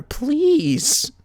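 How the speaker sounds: breathy whisper; Rarity swooning; whispered please. A narrator's reading. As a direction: whisper it dreamily.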